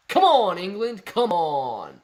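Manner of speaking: loud, high cry falling away; exasperated shout, starting high and dropping; mock exasperation. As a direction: playfully scold a whole country. Exasperated at English place-name spellings.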